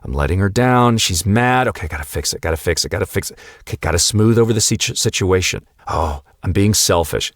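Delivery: mock-anxious inner chatter, half-muttered, rushing on the fixing. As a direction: lightly act out a panicky people-pleaser's thoughts. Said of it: "that hamster wheel in your mind starts going".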